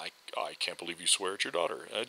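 a viewer scolding the dad for swearing, mock outrage; mock outraged viewer. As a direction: voice a scandalized commenter, hammed up. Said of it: "people who are, are livid".

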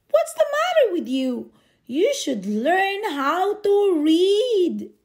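loud, fast then slowing angry shout; angry yell. Acted. Angry driver shouting at the boy who cannot read. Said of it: "One yelled".

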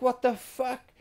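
high incredulous yelp; shocked outburst at the game; stunned what the fuck. Retold or imitated. Gamer shocked at the game, high yelp. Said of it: "I was like".

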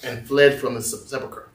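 deliberate scripture reading with pauses; measured, low-key Bible reading; slow reading. Real, not acted. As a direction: read it slowly, phrase by phrase. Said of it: "I'm gonna read this slowly".

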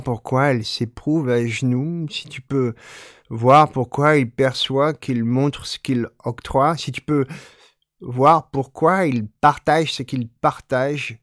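even, measured recitation of the French poem; poem reading. Acted. Teacher reading a Stein poem in French, measured recitation. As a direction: let the repetitions roll on.

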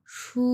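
সু as "shu", held level; long, soft, level-toned সু; first tone. Shown as a demonstration. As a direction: sustain সু on one even pitch. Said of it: "এক number tone".

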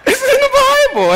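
high, loud and laughing. Real, not acted. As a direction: laugh it out, hands up. Laughing at shocked congregation.

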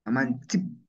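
Mamanchik said "ma-MAN-tsik"; tsik variant. Shown as a demonstration. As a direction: end Mamanchik with a ts and short i. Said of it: "otra forma también de pronunciar".

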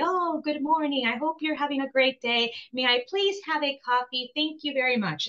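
a customer ordering coffee in careful Italian, overly polite. Retold or imitated. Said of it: "in my beautiful Italian".

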